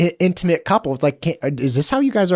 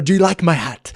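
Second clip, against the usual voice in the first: a hammed-up bad Irish accent, higher; 4 semitones higher, 4 dB louder than usual. Quoting Tom Cruise's bad Irish accent in Far and Away. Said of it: "That was the worst Irish accent ever".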